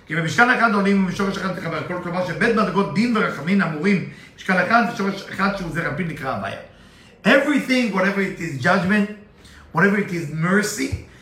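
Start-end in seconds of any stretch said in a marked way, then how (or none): 0.1-6.6 rattling off the Hebrew verse quickly; fast Hebrew recitation; rapid text reading. Acted. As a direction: read the verse at speed, as in study. Reads Zohar text fast.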